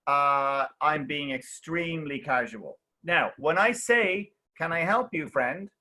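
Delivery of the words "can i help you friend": easy, friendly offer of help; sincere, friendly. Shown as a demonstration. Teacher shows the friendly tone to a student, sincere. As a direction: offer help sincerely, lifting gently at the end. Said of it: "I'm being sincere. I'm being friendly".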